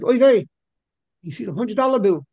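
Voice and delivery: high startled Oy vey; sudden loud surprise at the bill; surprised. Retold or imitated. Rebbe surprised at counting money.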